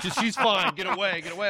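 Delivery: high, loud shrieking woman; shrill angry friend. Retold or imitated. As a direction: screech at him to get away. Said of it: "her friend ... was like".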